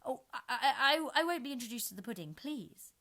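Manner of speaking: put-on high flustered girl, a laugh in it; rather hastily. A narrator's reading. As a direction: rush to refuse the introduction. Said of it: "Alice said rather hastily".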